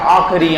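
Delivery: आखिरी said as aa-kha-ree; weak vowel after kh in आखिरी; wrong, i dropped. Shown as a demonstration. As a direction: say आखिरी without its short i. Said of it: "वो लगाई नहीं".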